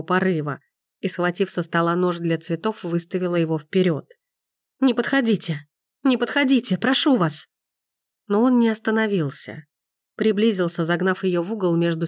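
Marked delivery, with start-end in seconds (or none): 4.8-7.5 frightened plea. A narrator's reading. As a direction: keep him away in fear. Frightened, knife raised.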